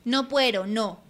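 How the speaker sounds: put-on cavernous old man refusing. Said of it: "replicó el viejo con su voz cavernosa".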